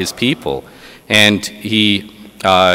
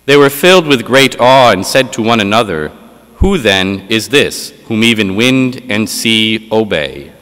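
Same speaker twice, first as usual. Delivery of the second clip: solemn liturgical reading voice; Gospel reading. Acted. Proclaims the Gospel at Mass.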